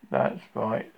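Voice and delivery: gloomy donkey. Acted.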